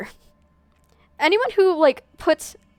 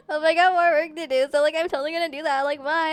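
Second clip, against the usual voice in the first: put-on a hint higher, breezy Valley Girl sign-off; bubbly Valley Girl; 4 semitones higher than usual. Reading a game character's goodbye, Valley Girl voice. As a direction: toss it off like a carefree Valley Girl. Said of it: "A is also a Valley Girl with a huskier voice".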